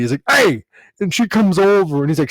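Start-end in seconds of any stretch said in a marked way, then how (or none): 0.3-0.6 mock yell, raised pitch; short retold holler, a little louder; retold scream. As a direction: imitate someone hollering at a passer-by. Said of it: "he screams at this Broadway lady".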